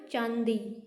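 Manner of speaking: चांदी with the vowel nasalised, chaan-dee; चांदी said slowly through the nose; nasal vowel demo. Shown as a demonstration. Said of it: "आप जैसे ही चांदी बोलेंगे तो देखो ने किसी ध्वनि आएगी".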